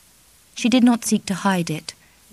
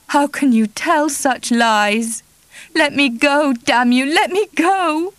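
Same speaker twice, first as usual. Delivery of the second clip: higher and louder, climbing to a cry; frantic protest; 8 semitones higher, 4 dB louder, slower than usual. Acted. Kitty struggling against Charlie, high frantic cry. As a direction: fight him off with the voice.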